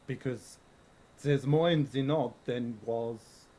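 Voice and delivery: put-on slow, measured German accent; deliberate speech in a put-on German accent. Coach hints to student about note, German accent. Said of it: "the German one".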